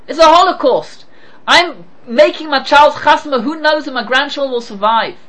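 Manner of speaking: acting out a distraught father; distressed protest. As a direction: protest as if all is lost. Acted anguished reply of Rabbi Gamliel.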